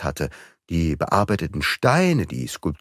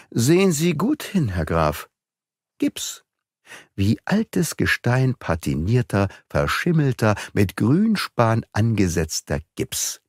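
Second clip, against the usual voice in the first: put-on raised, deliberate young sleuth voice; young detective, triumphant; 3 semitones higher than usual. A bright, pointed young investigator. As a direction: Beautrelet lays out the forgery to the count, relishing it. Beautrelet explains the fake statues.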